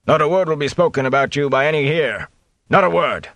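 a bluff cheerful innkeeper; jovial innkeeper. A narrator's reading. The innkeeper reassuring his guests, jovial and hearty. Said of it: "Master Fitch replied jovially".

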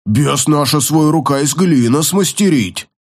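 lightly yapped, brute's broken speech; yappy little dog. Acted. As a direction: yap the words like a small dog. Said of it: "протявкал Гварл".

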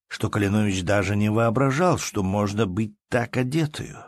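usual speaking voice

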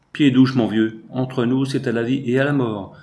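a burst of eager enthusiasm, loud on the name; enthusiastic outburst. Acted. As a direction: swear loyalty with a rush of excitement. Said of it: "s'écria Binos dans un accès d'enthousiasme".

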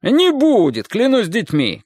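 shouted oath. A narrator's reading. Roof man swears to the wife, high shout. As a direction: call out a promise. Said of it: "крикнул мужчина".

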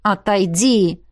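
slow, hissed command; vicious hiss. A narrator's reading. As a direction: hiss it angrily, drawn out. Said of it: "злобно зашипел". (злобно прошипеть)

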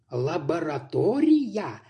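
slow, spelling out each syllable. Acted. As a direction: break the word into syllables. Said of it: "по слогам проговорил".

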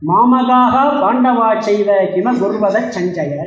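slow, measured shloka recitation; unhurried scripture recital; Sanskrit verse recitation. Acted. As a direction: recite the verse slowly, drawing out the syllables. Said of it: "முதல் ஸ்லோகத்துல இங்க திருதராஷ்டிரன் பேசுறான்".

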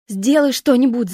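громкий высокий ор; заори, выше и громче. A narrator's reading. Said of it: "заорала Энди". (дочь громко и высоко орёт на мать)

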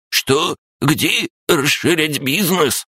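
high, slow crab creature voice; snappy clicking crab. Acted. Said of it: "щелкая клешнями".

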